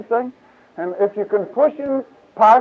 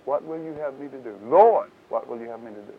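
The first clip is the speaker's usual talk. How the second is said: hushed surrender; 5 semitones lower, 6 dB quieter than usual. Acted. Paul's quiet surrender.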